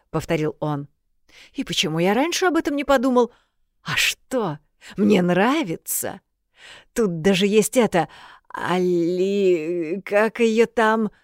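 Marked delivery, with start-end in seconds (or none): 1.5-11.1 fussy little water spirit, lightly voiced.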